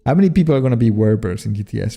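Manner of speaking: quick correction, werebears this time; fast corrected repeat. Shown as a demonstration. Streamer rushing a corrected line to chat. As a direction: rattle it off again, fixed. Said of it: "not werewolves, sorry".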